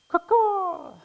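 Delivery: badly faked bird call; joking rooster, a crow-like caw; mock rooster crow. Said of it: "that's probably not a rooster".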